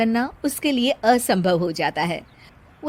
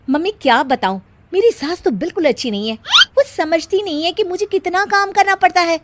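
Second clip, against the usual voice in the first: complaining daughter-in-law; 4 semitones higher, 5 dB louder than usual. Acted.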